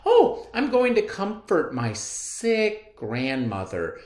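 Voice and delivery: put-on high, loud little girl voice; high girlish voice. Girl answering the wolf, high chirpy child voice. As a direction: sing it out like an eager child. Red Riding Hood's voice.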